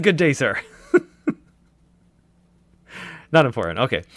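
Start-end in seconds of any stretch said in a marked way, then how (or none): 0.0-0.6 meme voice. Retold or imitated. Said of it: "I said".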